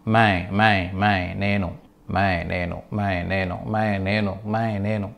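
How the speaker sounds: మై said through the nose as nasal "main". Shown as a demonstration. Hindi teacher drilling learners to nasalise మై. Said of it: "దీన్ని ముక్కుతో పలకాలన్నమాట".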